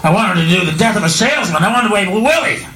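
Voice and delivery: low, self-pitying actor moaning to himself; Kangaroo at home. Retold or imitated. Kangaroo alone at home complaining he was a real actor, low moaning. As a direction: mope about the wasted acting career, voice sunk low. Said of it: "Just at home going".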